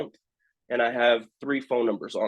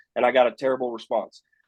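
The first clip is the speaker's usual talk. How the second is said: normal talking voice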